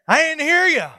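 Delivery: mock-innocent sing-song call; said it nice. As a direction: call out high and friendly to the kitchen. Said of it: "I said it nice".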